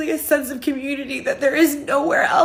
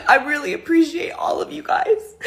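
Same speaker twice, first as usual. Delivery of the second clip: crying; 3 semitones higher than usual. Real, not acted. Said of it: "I can't believe I'm crying like this".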